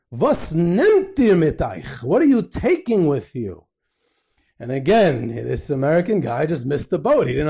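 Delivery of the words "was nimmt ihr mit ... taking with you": slow, insistent retold questioning; upset. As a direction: imitate an upset rabbi pressing the question. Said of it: "gets all upset".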